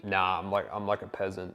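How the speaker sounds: mock-humble throwaway; sarcastic denial. Shown as a demonstration. Coach answers "are you rich", deadpan sarcasm. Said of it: "sarcastically not agree".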